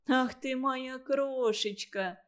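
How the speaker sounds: put-on slow, tender old woman; touched. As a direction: melt with tenderness. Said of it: "расчувствовалась старушка".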